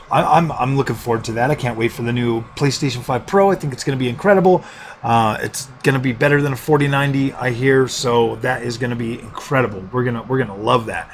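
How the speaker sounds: sarcasm played a little too serious; deadpan sarcasm. Real, not acted. Gamer mock-praising the upcoming PlayStation five Pro, deadpan sarcasm. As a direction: feign sincere anticipation, understated and straight. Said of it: "Yes, that was sarcastic".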